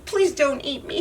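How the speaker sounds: small high squeak. Acted. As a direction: squeak it out in fear. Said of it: "he squeaked".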